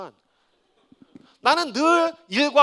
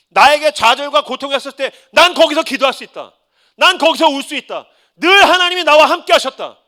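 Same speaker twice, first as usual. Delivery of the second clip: loud, high climactic proclamation; full-force preaching; 7 semitones higher, 12 dB louder than usual. Real, not acted. Pastor proclaiming faith to the congregation at full force. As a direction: build to a triumphant declaration.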